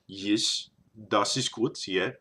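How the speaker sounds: slipping into a German accent; accidental German accent. Shown as a demonstration. Vlogger losing the Russian accent mid-list, German accent. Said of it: "totally went German".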